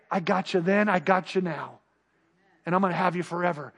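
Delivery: tender God voice. Retold or imitated. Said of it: "God demonstrated his love to say".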